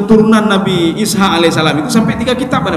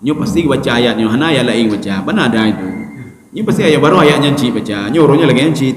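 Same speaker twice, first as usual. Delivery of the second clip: low-pitched scoffing at the imam; mocking grumble; 5 semitones lower than usual. Congregants complain about the imam's usual verse, in a mocking grumble. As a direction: grumble mildly like a jeering worshipper. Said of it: "mencemoohkan imam ya".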